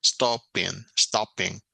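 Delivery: STOPPING as stop-ping, with a very brief break; syllables set apart. Shown as a demonstration. Teacher showing students the brief pause, syllables set apart. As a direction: give each syllable of "stopping" its own push. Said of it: "Es una pausa muy breve".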